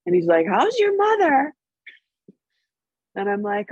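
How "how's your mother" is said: father-in-law voice. Retold or imitated. Voicing drunk father-in-law's question.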